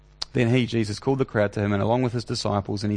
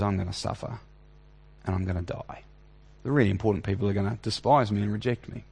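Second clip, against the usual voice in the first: quiet solemn Jesus; 3 semitones lower, 3 dB quieter, faster than usual. Retold or imitated. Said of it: "Jesus says".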